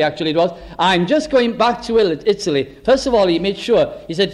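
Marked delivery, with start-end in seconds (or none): 0.8-2.8 imitated European-accented salesman; lightly put-on European accent. Roadside seller tells motorist he is going home, European accent. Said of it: "one of the European accents".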